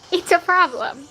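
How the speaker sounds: said through a chuckle; amused, laughing admission. Real, not acted. Streamer admitting looking young is still a problem, laughing.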